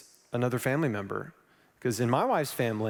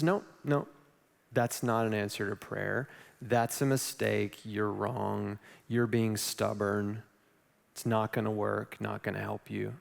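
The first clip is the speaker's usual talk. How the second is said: lower, slow, softer mock scolding; scolding doubters; 5 semitones lower, 4 dB quieter, slower than usual. Everyone around him rejecting his choice, lower and slow. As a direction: drag it out like disapproving elders.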